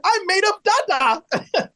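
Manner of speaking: high, slow and laughing; a laughing little child's boast; laughing child quote. Retold or imitated. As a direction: giggle it out like a kid. Child's line acted with a laugh.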